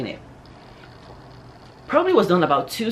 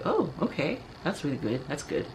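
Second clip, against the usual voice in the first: awkward acceptance; 5 dB quieter than usual. Retold or imitated. Crush reacting to news she is married, subdued. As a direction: imitate someone backing off politely, trailing quieter.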